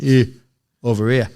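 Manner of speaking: imitated Geordie call; Geordie accent. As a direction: mimic a manager's Geordie accent. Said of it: "in his fucking Geordie accent".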